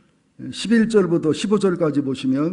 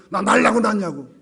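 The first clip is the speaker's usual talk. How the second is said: louder, higher mock backtalk; acted child's retort; 5 semitones higher, 6 dB louder than usual. Scolded child answering the parents, mock defiant retort. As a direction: throw it back at a scolding parent. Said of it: "막 혼내키 뭐라고 합니까".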